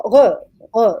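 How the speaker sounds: re, re with the r from deep in the throat; no tongue, make the r of "re" in the throat; throaty French r. Shown as a demonstration. Showing the French sound, throaty r in "re, re". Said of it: "comes from a deeper throat".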